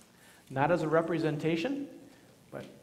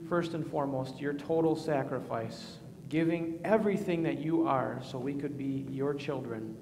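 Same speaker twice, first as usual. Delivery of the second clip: prayer. Acted. Leads a spoken prayer.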